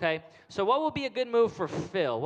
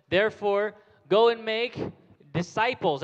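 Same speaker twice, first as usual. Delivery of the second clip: put-on verse called out loud for kids to repeat; loud model line; 3 semitones higher, 6 dB louder than usual. Shown as a demonstration. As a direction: call it out for the room. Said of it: "Everyone say disciples".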